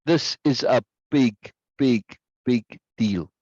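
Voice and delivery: each big spaced out with a pause; stress on big. Shown as a demonstration. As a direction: lean on every big. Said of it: "This capital P practice".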